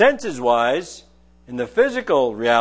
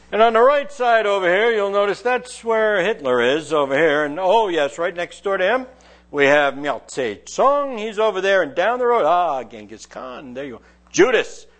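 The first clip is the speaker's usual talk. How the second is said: tour guide; 3 semitones higher than usual. Pretend. Preacher mocks a minister's tour of hell, cheery guide voice. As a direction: point out the sights like a Hollywood bus guide. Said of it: "did he take a bus tour".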